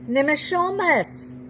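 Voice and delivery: frantic call, falling. A narrator's reading. Girl calling great-grandfather again, fading high call. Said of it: "I call frantically".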